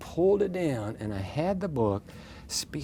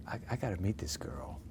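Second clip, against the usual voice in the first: whisper; 8 dB quieter than usual. Retold or imitated. Inner thought about meeting her.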